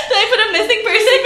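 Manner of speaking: high, loud panicky rambling through laughter; hammed-up worried girlfriend; mock frantic worry. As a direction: play up the spiralling panic for laughs. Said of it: "now I'm kinda worried".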